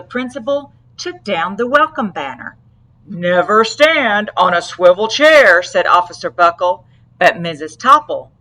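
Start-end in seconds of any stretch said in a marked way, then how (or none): 3.1-5.6 louder, firm safety warning. Acted. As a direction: warn sternly like a cop. Officer voiced in read story.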